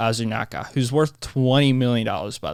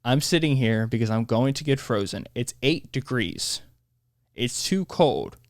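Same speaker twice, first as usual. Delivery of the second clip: mock whiny. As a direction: stretch it out to mock her. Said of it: "She said".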